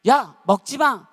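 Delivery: high, loud, drawn-out warning; sharp scolding shout. Acted. Mother or sibling stopping a dieter from eating, scolding shout. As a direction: yell to stop someone mid-bite.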